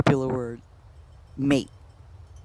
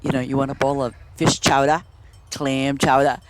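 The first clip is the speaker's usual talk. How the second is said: low Boston accent on "chowder"; 4 semitones lower than usual. Shown as a demonstration. Offering a bowl of chowder, Boston accent. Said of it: "how you're supposed to say it in Boston".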